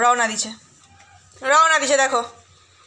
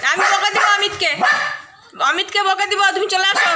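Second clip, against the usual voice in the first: voicing the dog; 6 semitones higher, 3 dB louder than usual. Speaking as the dog.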